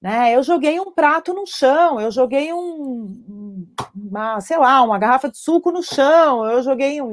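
lightly voiced guilty dad; exasperated father. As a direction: imitate a father at his limit. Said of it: "o pai fala assim".

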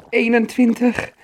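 put-on high, loud young troll; squeaky child's exclaimed count. A narrator's reading. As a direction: call out the number on a big jump. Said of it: "Hij telde elke sprong hardop".

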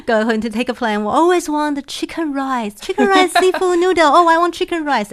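giggling through the words, pitch climbing; laughing. Real, not acted. Laughing about everyone's chicken rice.

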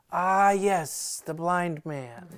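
lofty, drawn-out announcement; mock Pharisee. A hint of a pompous Pharisee, retelling the kid's story. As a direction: kid imitating a grand Pharisee. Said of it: "the Pharisee goes".

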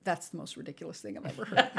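put-on laughing through the child's line; laughing quote. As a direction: retell the kid's verdict while laughing. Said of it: "literally comes out of his mouth".

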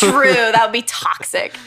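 quick breathy whisper; whispered aside. Real, not acted. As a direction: say it under your breath, sharing a secret.

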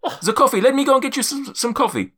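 high-voiced forgetful giant; suddenly remember, high and flustered; Zephyros. Giant going off to fetch coffee, high flustered accented voice. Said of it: "my accent's just all over the place".

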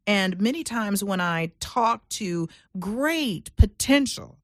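slow, with potential leaned on; emphasis on potential. Shown as a demonstration. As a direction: linger on great potential. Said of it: "emphasis on potential".

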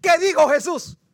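high, loud, insistent question; loud urgent demand. Acted. Man begging the preacher to finish, loud and urgent. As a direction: demand the answer at full voice.

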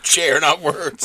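not words said slow and soft; slow soft echo of not words. Retold or imitated. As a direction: savor not words slowly. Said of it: "repeated from the quote".

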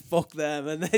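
half-laughing imitation of his own anger; laughing mock rant. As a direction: laugh through a mock outburst. Retold angry self-talk, laughing.

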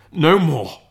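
high, loud anguished cry. Acted. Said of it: "cried Scrooge".

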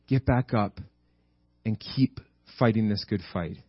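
low, gentle sending-off with long pauses; sweet, loving command. Acted. God sending Elijah back to his calling, lovingly gentle. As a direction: send him back tenderly, phrase by phrase. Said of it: "He speaks to him in such a sweet, loving way".

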